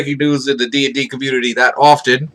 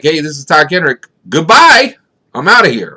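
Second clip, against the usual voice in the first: mock cheery goodbye; 3 semitones higher, 5 dB louder than usual. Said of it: "he didn't say it with any, like, pep in his step".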